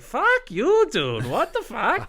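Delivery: exaggerated Boston accent rant; mock Boston accent. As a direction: bark it like a caricatured Southie local. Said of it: "it's like".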